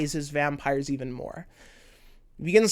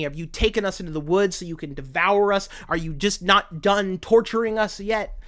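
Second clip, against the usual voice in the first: acted, raised-voice accusation; distressed, slightly louder challenge; accusing questions; 4 semitones higher, 4 dB louder than usual. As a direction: press the questions bitterly. Acting Vanitas's accusing questions.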